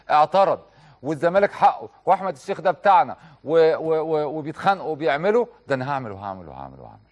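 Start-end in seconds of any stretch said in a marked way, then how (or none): 5.7-7.0 mock fan threat. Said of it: "هو بيقول كده جواه".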